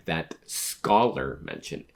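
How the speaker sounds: "Scholar" set apart with emphasis; stress on Scholar. Shown as a demonstration. Reader voicing a manga line, stress on "Scholar". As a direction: lean on the word "Scholar". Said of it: "Emphasis on Scholar".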